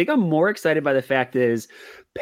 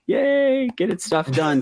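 mock cheer; 5 semitones higher, slower than usual. Sarcastic cheer about late nights.

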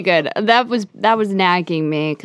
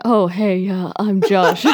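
awkward greeting; slower than usual. Pretend. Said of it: "weird Josh impersonation".

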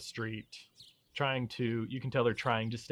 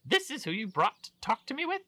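disdainful; 7 dB louder than usual. Acted. Baron sneering at Leon.

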